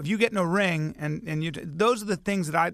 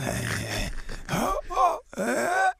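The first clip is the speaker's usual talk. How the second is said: drawn-out, high-pitched odd noises; imitating father's strange wordless noises; weird noises; 9 semitones higher than usual. Comic telling of father by the closet, weird noises. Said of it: "making weird noises".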